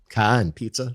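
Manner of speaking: put-on thick old Boston accent, no r in car. Recalling words once said in a thick Boston accent, imitating own old Boston accent. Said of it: "But I used to say that".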